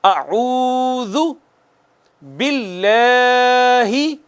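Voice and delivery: very slow chanted اعوذ باللہ; Quranic recitation. Shown as a demonstration. Teacher leads students in repeating, slow chant. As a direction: lead the recitation slowly for them to follow. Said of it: "آپ مجھے follow کیجئے گا".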